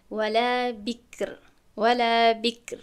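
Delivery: ولا بکر said slowly with a light r; drawn-out ولا بکر with a thin r; light r recitation. Shown as a demonstration.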